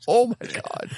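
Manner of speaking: high-pitched mock disbelief; astonished exclamation. Reacting to the couple's accent in the story, amused disbelief.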